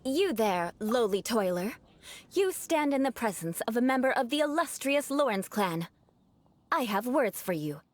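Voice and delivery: lofty, grand noble address, lightly pompous; haughty aristocrat. Acted. Knight addressing a lowly worker in haughty noble speech. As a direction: speak down to a commoner with mock grandeur. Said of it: "my aristocratic manner of speech".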